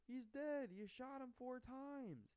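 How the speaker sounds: high, loud imitated protest; high-pitched retort, slowing at the end; mock protest. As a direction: argue back in a hammed-up high voice. Retold argument, marshal answering back.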